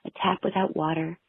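mock-dramatic poem reading; poem recitation. Reads her sad poem aloud.

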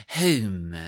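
super-proper British pronunciation of "home"; Queen's English accent. Shown as a demonstration. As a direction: say "home" in posh royal English. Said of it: "obsessed with the Queen's".

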